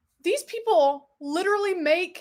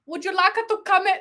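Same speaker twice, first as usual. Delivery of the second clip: higher, mock Russian that sounds Italian; failed Russian accent; 5 semitones higher than usual. Babushka inviting someone in, badly faked Russian-Italian accent. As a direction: try Russian but land on Italian. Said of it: "That's still Italian".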